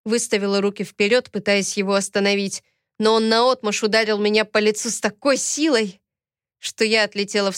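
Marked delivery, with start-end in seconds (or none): none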